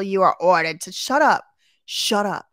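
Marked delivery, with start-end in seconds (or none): 0.0-0.9 mocking the officer. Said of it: "This freaking Colonel Sanders or whatever over here is still". 0.9-1.4 louder, higher snapped shut up; annoyed shut up. Real, not acted. Repeated shut up, louder take.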